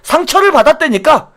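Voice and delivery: sneering, high mocking parody of a grudging apology; whiny fake contrition. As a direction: ham up an insincere politician's sorry.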